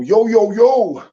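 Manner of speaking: high, loud, drawn-out hail; long, rising whoop of welcome; hollered greeting. Real, not acted. Hearty greeting to a chat regular.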